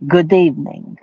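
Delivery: Good evening with a lightly put-on vampire Russian accent. Shown as a demonstration. Streamer greeting viewer in mild vampire Russian accent. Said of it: "That's my vampire Russian accent".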